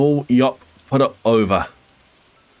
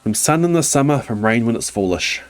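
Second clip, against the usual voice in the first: raised, brighter kangaroo voice; big kangaroo voice; 3 semitones higher than usual. Acted. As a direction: play the big kangaroo, lifted. Kangaroo speaks in the story.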